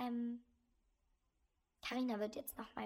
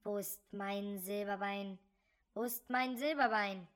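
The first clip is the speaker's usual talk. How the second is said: count's ghostly voice; 6 dB louder than usual. Acted. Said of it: "die vertraute Stimme des Grafen".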